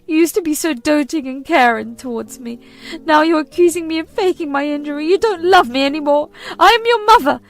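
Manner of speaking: high, loud guilt-tripping mother; shrill ultimatum. Acted. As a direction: demand he choose her.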